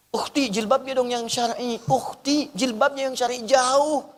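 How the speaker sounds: mock exhorting. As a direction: call out advice to a distant sister. Acting out advice to distant women. (menirukan nasihat dengan nada tinggi)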